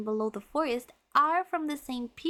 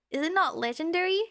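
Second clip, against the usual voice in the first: puzzled protest; 6 semitones higher, faster than usual. Real, not acted. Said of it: "Have I been mispronounced?".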